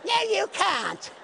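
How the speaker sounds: high, loud, drawn-out mock refusal; playfully shouting no at the eager young man. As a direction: boom out a playful no, slowly.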